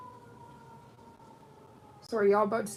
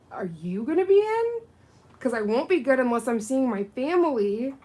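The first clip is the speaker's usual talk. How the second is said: higher, louder eager answer; excited reply; 5 semitones higher, 10 dB louder than usual. Retold or imitated. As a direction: gush it back to a dear friend. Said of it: "And I was like".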